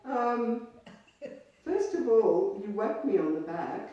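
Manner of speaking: mock indignation, piqued; offended man. Recalling the man's complaint about the slap, in mild mock outrage. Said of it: "this is what he said to me".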